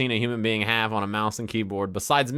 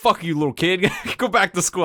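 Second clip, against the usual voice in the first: put-on grumpy, crotchety old man voice, pitched up; 7 semitones higher, 3 dB louder than usual. Retelling a comeback to a teenage kid online, talking as an old man. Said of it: "I just start talking shit as an old man".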